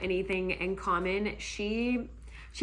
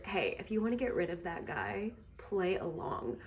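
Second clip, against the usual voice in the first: hushed, softer aside; imitated whisper; 6 dB quieter than usual. Stranger whispers in her ear to help, hushed. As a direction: murmur it like a secret tip. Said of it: "he whispers in her ear".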